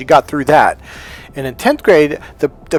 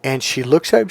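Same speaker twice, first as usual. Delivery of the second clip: ordinary delivery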